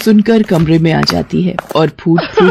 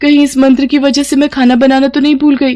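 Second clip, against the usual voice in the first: a younger, higher voice growing flustered; sly then panicky young woman, voice a bit higher; lightly voiced sister-in-law; 4 semitones higher than usual. Pinki spies on Gauri's spell, then panics in the kitchen.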